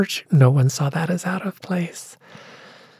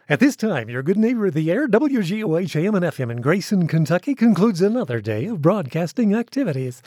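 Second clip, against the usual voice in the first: a hint of a sixties radio announcer; lightly voiced AM radio sign-off; old radio voice; faster than usual. Shown as a demonstration. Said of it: "I will go into my old radio voice".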